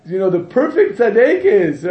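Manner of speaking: high, loud, slow mock preening voice; mocking show-off girl. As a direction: ham up a vain self-admirer. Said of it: "and she's thinking".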